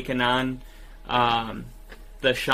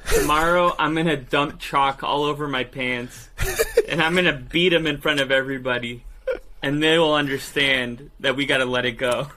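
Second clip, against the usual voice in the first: laughing through a mock plan; chuckles breaking into the pretend resolve; amused imagined quote. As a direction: act out the scheme, cracking up. Imagining coach's bedtime plan, laughing.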